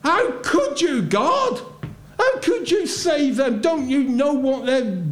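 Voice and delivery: a voiced prophet demanding how God could; angry protest. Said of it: "He was angry".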